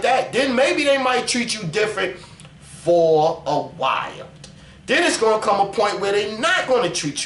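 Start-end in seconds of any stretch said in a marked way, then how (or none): none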